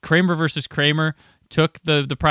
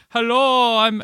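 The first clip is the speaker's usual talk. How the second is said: light mock Jamaican hello, pitched up; Rastafarian accent; 9 semitones higher, slower than usual. Coworker greets at Circuit City in a light mock Jamaican accent.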